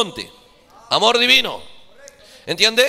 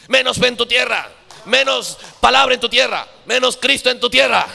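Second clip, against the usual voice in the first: preaching climax; 2 semitones higher than usual. Acted.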